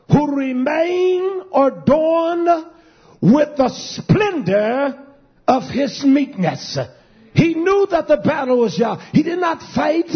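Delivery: drawn-out phrases rising in pitch; impassioned pulpit storytelling; fervent preaching. Acted. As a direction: stretch the words, then drive home high.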